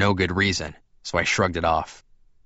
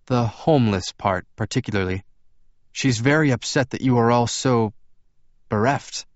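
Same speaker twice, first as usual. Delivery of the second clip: lightly voiced, courteous vampire; slightly higher, careful dialogue; Edward's character voice; 4 semitones higher than usual. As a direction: lift the pitch a little, explain politely.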